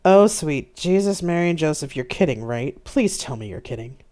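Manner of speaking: exasperated disbelief. Acted. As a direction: burst out in dismay, then plead. Admiral hears bad news.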